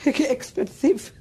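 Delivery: laughing through the words, slow. Real, not acted. Survivor laughing at her old nickname, slow and amused. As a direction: chuckle it out, drawn slow.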